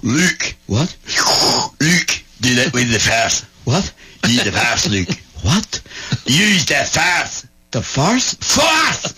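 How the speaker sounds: Scottish Vader. Retold or imitated. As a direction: Vader with a broad comic Scottish accent. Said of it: "Great Scottish Vader".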